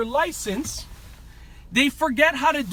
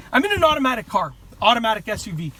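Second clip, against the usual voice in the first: fast, out of breath; 2 semitones lower, faster than usual. Real, not acted. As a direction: talk quickly, short of air. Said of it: "Sorry, I'm out of breath".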